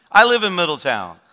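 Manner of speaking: emphatic, surprised reply; surprised echo. Retold or imitated. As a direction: imitate a stranger amazed at the coincidence. Stranger astonished by shared hometown.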